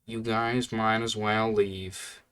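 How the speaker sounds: slow, dead flat delivery; deadpan monotone. Retold or imitated. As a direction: say it slowly with zero emotion, like an employee done with the day. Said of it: "in the most monotone voice, dead".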